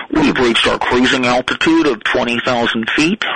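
calm airline captain on the intercom; lightly voiced pilot cockpit headset; pilot announcement. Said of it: "It's Talk Like a Pilot Day".

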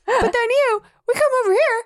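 high, whiny put-on complaint; hammed-up high-pitched protest; mock exasperation. Acts boy's frustrated complaint.

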